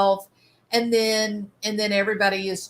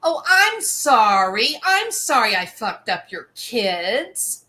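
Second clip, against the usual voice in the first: sarcastic fake apology, a bit louder; mocking Amber; 4 dB louder than usual. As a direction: sneer out a hollow sorry. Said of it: "And what does she say?".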